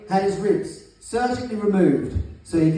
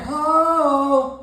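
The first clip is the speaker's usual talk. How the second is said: call for response; 6 semitones higher than usual. Shown as a demonstration. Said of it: "All the ladies in the place say".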